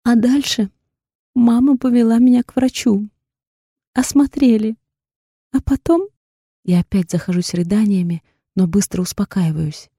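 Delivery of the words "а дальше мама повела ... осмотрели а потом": tearful. A narrator's reading. Tearful account.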